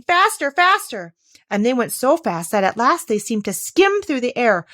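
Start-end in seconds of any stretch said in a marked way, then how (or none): 0.0-1.1 high, slow, louder urging call; urgent cry. Acted. The Queen keeps pushing Alice faster. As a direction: stretch each word to push her.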